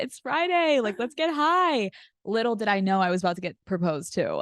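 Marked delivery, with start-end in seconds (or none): 0.0-0.8 "It's Friday" sung out much higher, teasing; hammed-up "It's Friday" to a buzzkill; playful party push. Playing rowdy self to assistant. 0.8-1.9 much higher, teasing and eager; hammed-up let's-party voice; playful party push. Playing rowdy self to assistant.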